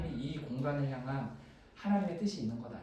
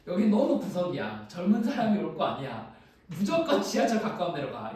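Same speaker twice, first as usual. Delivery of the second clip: louder, insistent quoted advice; firm retold advice; 5 dB louder than usual. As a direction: steer them away firmly, as retold. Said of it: "저한테 단호하게".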